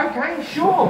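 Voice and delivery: high, timid okay; nervous agreement. Retold or imitated. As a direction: squeak out a nervous yes. Nervous reply to billionaire.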